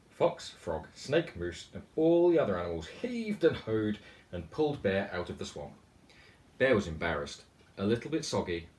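put-on lively read-aloud storytelling for children; animated picture-book reading; story narration. A narrator's reading. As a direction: tell it like a bedtime picture book. Author reads picture book aloud.

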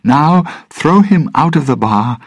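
high, loud command; shouted order. Acted. Elizabeth ordering the pirates to throw him out, loud shout. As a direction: bark it to the pirates. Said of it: "she shouted to the pirates".

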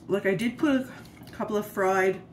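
talking through a mouthful of food; words muffled round a bite; mouth full. Real, not acted. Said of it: "I'm talking with my mouth full".

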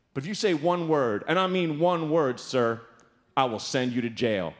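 low, measured authority; commanding. Retold or imitated. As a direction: imitate a bus driver laying down the law. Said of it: "So commanding".

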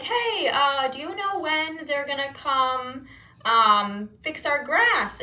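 retold casual, careful opener; careful and friendly. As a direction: ease in politely, trying not to sound mean. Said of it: "without being mean or being weird about it".

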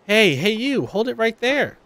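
high, bossy call to stop her; snooty idol barking a challenge; haughty rival idol. Acted. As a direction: stop the girl like you own the street. Rival idol confronts Haruka.

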